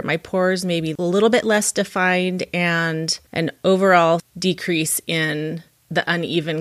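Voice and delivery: upbeat sponsor read for listeners. Acted. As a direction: pitch the product warmly.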